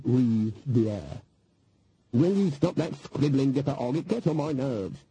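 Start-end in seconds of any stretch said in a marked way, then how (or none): 2.1-5.0 snapped. Acted. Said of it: "snapped Granny".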